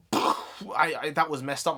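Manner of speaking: throat giving out mid-word; cracked, failing voice; voice cracking. Real, not acted. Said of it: "my throat kinda messed up there".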